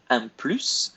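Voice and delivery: plus said with the final S clearly pronounced, like ploose; final S sounded. Shown as a demonstration. Teacher shows students plus keeps its final S, pronouncing the S clearly. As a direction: sound the S at the end of plus, plus not plu. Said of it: "One of the rare S's we pronounce".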